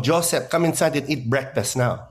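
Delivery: a lightly voiced Filipino accent of his mom calling him in to breakfast; an understated Filipino mom accent, calling her son Joseph. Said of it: "my mom going".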